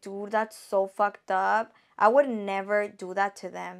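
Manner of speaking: normal talking voice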